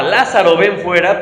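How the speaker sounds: mild retold loud cry; calling out. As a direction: call Lázaro out of the tomb. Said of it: "dice la Biblia que clamó".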